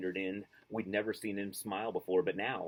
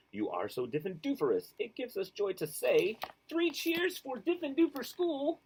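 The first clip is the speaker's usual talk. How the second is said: triumphant school song; 6 semitones higher than usual. Acted. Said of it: "sang triumphantly the Diffendufer song".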